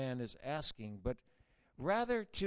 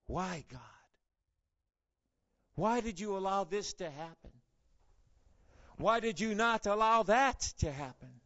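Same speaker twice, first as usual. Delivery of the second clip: questioning God; 2 semitones higher, 4 dB louder than usual. Retold or imitated. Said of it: "ask the question yourself".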